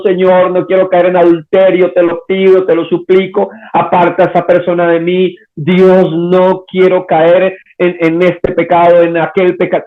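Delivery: ruego insistente, representado; súplica actuada. Acted. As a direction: rogar a Dios como quien teme caer. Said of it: "una persona rogando y suplicando". (súplica sostenida de un creyente imaginado)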